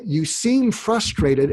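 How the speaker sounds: said slowly and deliberately; slow, careful coaching delivery; slow demo line. Shown as a demonstration. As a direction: lay out each word slowly for them to copy. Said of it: "everybody's taking notes here".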